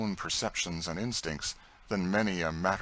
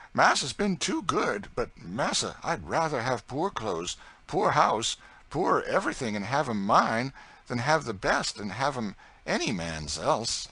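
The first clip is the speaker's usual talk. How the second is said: much higher, louder earnest servant voice; Tom's pleading voice; 6 semitones higher, 5 dB louder than usual. Acted. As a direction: plead for a life of your own. Tom pleads for freedom.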